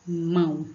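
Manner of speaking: "Mão" set apart as one beat; deliberate single syllable. Shown as a demonstration. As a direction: sound out "Mão" in a single opening. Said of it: "Quantas vezes eu abri a boca?". ("Mão" pausado, numa sílaba só)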